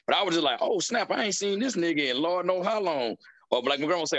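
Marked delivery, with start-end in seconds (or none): 0.6-3.2 slightly raised pitch, acted-out surprise; mild mock surprise. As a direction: play surprise at an unexpected face. Acts out surprise at seeing someone.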